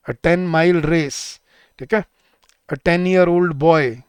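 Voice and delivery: very slow, each phrase spaced; slow examples. Shown as a demonstration. Teacher listing correct examples slowly for students. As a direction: list examples slowly for copying. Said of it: "ये बोला जाता है".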